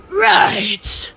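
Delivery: "Right" high and drawn out; exaggerated echo. Shown as a demonstration. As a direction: stretch "Right" in a put-on high voice.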